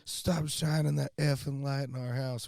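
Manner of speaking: high, drawn-out mock yell; retold screaming. Woman yelling at boaters over their light, mock screaming. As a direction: imitate an irate yell without full volume. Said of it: "she just kept screaming".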